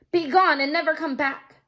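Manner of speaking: firm commanding shout. Acted. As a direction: drive the giant off for good. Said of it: "Beckon commanded".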